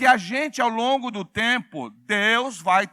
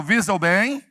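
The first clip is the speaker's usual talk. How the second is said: prompting the crowd, ending on a raised question; loud call-out; 6 dB louder than usual. Shown as a demonstration. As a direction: lead the congregation in a firm call. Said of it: "Fala bem alto".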